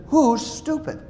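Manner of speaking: high, teasing question; wife overhears her husband muttering and teases him; wife asking, amused. Retold or imitated. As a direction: catch him talking to himself.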